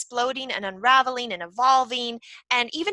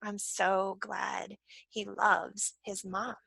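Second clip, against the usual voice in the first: soft, tearful; 3 semitones lower, 11 dB quieter, slower than usual. Retold or imitated. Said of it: "And I sobbed".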